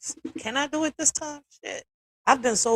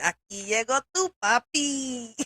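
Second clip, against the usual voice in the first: Eddie Guerrero voice; slower than usual. Retold or imitated. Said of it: "sounding like Eddie Guerrero".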